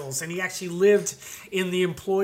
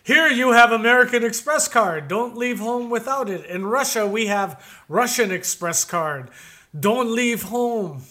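Smirnoff joke voice; 4 semitones higher, 6 dB louder than usual. Retold or imitated. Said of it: "a classic one".

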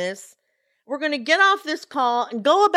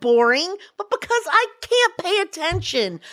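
higher voice while banging the desk; 7 semitones higher than usual. Real, not acted. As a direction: thump the desk as you talk. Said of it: "stop hitting the desk".

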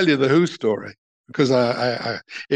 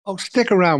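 higher-pitched imitation of an eager girl; lightly voiced girl, pitched up; drugstore girl; 6 semitones higher than usual. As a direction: put on a keen shop girl's voice. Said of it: "the girl would say".

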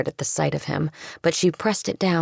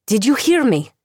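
louder, higher insistent call; raised voice demanding attention; frustrated demand; 6 semitones higher, 4 dB louder than usual. Acted. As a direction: make him listen.

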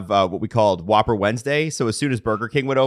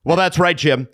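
mock news anchor; 4 semitones higher than usual. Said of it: "even them, it's like".

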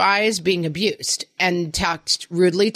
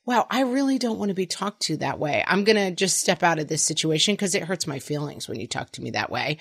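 calm reframing; 4 dB quieter than usual. Retold or imitated. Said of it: "reframe ... into, like".

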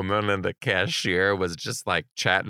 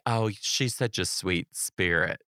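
soft Utah nicety; 3 semitones lower, 6 dB quieter, slower than usual. Retold or imitated. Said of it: "They say".

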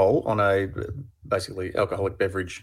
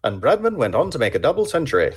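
lightly voiced old-time radio announcer; a hint of a 1950s cricket broadcaster; 4 semitones higher than usual. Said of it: "a nineteen fifties radio voice".

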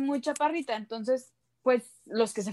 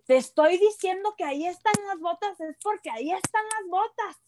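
imitating mom; 7 semitones higher than usual. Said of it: "y me dice".

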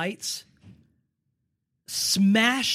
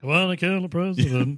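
his assassin voice; 4 dB louder than usual. Retold or imitated. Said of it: "With that voice".

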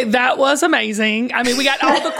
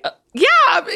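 higher, drawn-out yeah; retold hesitant agreement; 8 semitones higher than usual. Replying to a friend's Hallmark request, retold hesitant agreement. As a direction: play an awkward, stalling yes. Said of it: "I was like".

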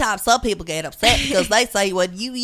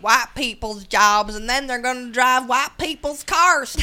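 put-on Southern accent; 3 semitones higher than usual. Mocking a racist robocall against a candidate, hammy Southern accent. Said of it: "I'm sorry I'm using a Southern accent".

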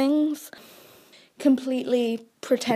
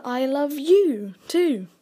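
tender reply; 3 semitones higher, 4 dB louder, much slower than usual. Shown as a demonstration. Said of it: "I respond".

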